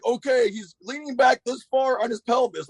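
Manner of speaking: high, slowed mock Vietnamese accent. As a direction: imitate a friend's Vietnamese-accented explaining, pitched high. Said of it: "full, like, Vietnam, like, style".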